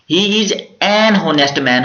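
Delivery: He is an honest man spoken very slowly; slow dictation. Shown as a demonstration. Teacher dictates the example to students, very slowly. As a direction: read it out word by word for the class. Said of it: "teacher reads example sentence".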